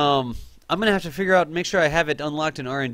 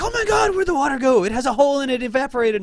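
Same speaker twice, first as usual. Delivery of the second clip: put-on high, loud kid disbelief; shocked kid; 11 semitones higher, 4 dB louder than usual. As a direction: squeal it like a stunned child. Kids shocked, water vanished.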